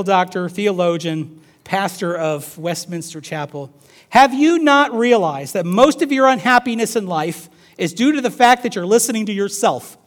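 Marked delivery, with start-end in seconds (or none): 4.1-10.0 raised, declamatory reading voice; emphatic quote reading. Acted. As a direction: read it out like a challenge from the pulpit.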